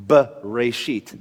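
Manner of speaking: "b-reshit" with "buh" split off; stop after first syllable. Shown as a demonstration. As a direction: break "b-reshit" briefly after the b. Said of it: "it kinda makes you stop".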